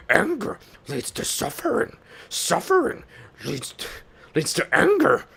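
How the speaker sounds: high put-on creature voice; Star Wars character voice. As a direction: recite it in a high movie-character voice. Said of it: "me just going like that".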